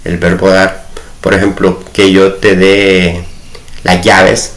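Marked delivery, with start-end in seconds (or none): 1.9-4.5 slow, carefully spaced "que yo te dé las llaves"; slow teaching demo. Shown as a demonstration. Teacher reading an example sentence to students, slowly. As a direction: lay out each word of "que yo te dé" for the class. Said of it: "ahí el de va a llevar acento".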